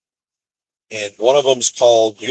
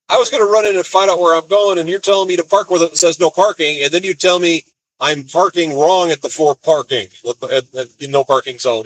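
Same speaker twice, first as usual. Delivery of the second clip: exasperated retort; 6 semitones higher than usual. Retold or imitated. Arguing with the gate worker.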